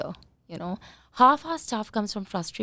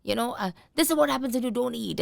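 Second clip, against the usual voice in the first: imitating an annoyed parent; mock reproach, pitched up; scolding parent; 5 semitones higher than usual. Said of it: "You're like".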